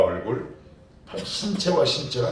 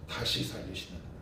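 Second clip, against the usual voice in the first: 살리시는 said much softer, falling; quiet answer; 5 semitones lower, 12 dB quieter than usual. Shown as a demonstration. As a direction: drop the voice to a hushed answer on 살리시는. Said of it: "어떤 하나님을 만난 겁니까?". (살리시는을 훨씬 작게 내려놓듯이)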